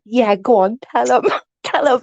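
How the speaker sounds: mock ringside encouragement; gleeful egging on. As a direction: cheer him on into a fight, giggling. Acts out egging him on.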